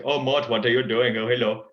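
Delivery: a hint of King Julian, accent only; early King Julian. Shown as a demonstration. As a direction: lightly put on the lemur king's accent. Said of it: "my King Julian one ... putting on, like, that sort of accent".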